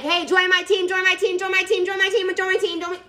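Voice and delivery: pushy, sing-song sales chant, mocked; mocking recruiter pitch. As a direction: parody a desperate recruiter repeating "join my team". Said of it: "I hate those words".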